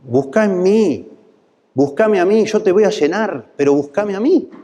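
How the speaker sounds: high, pleading voice of God calling his people. Acted. God calling his wandering people back, high and pleading. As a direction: beg them to come back to you.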